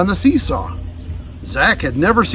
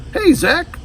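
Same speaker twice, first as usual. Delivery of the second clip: put-on a boy calling out; 13 semitones higher than usual. A narrator's reading. Boy greeting friend.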